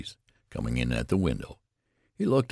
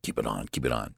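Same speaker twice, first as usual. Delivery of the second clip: lower, hasty hushing; hurried; 6 semitones lower, faster than usual. Acted. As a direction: get it out quickly to stop him. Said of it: "said Mister Button hurriedly".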